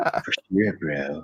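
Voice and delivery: put-on Valley girl voice. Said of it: "you're a Valley girl now".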